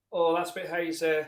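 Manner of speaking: hammed-up disappointment at a cloudy pint; mock dismay. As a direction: punter put out by a hazy pint, light mock dismay. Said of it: "we'd go".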